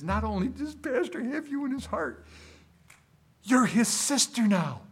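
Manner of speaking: gently teasing a church lady; mock tender pastor. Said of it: "And I says".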